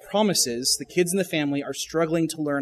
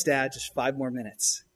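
drawn-out, slower whiny plea; slow kid whine; 3 semitones lower than usual. Retold or imitated. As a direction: stretch it out like a sulking child. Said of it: "What do they say?".

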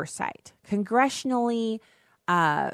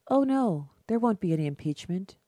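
a light, soothing brush-off, softer at the end; mock calm reassurance; 4 dB quieter than usual. Host mocking the congressman's calm denial, airy and soft. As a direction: breezily wave it away like it's nothing. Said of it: "he's saying it so calmly".

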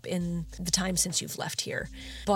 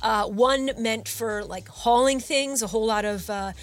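chatty, upbeat salesman voice; eager shopkeeper. Acted. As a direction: pitch the goods like a friendly bro.

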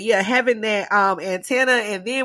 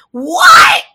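much higher and louder mock disbelief; indignant disbelief; 6 semitones higher, 12 dB louder than usual. Grandchild reacting to grandma's request, indignant disbelief. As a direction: act floored by the request.

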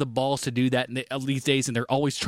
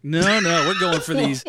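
louder, insistent no no; emphatic insistence; 3 semitones higher, 5 dB louder than usual. Real, not acted. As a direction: push back hard on the choice. Emphatic pick of actress.

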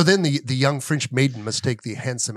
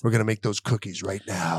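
laughing shout; 7 semitones lower, 6 dB quieter than usual. Acted. Gangster acts out cookie plan.

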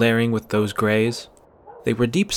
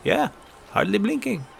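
put-on lightly raised young voices trading lines; character voices; 4 semitones higher than usual. Young friends talking, lightly voiced. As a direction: kids whispering plans to each other.

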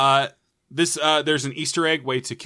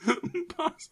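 silly voice; 5 dB quieter, slower than usual. Acted. Echoing the word in silly voice.

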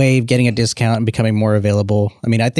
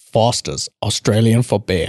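slow imitation of the beer ad in an Australian accent; 3 semitones lower, slower than usual. Quoting the beer commercial in an Australian accent. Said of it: "the only Australian I know is".

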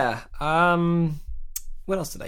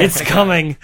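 ominous loud warning; 7 semitones higher, 8 dB louder, slower than usual. Pretend. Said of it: "just like".

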